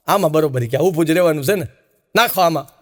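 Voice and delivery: a hint of a fussy sinner begging off; mock whiny refusal. Sinner picks mud pond.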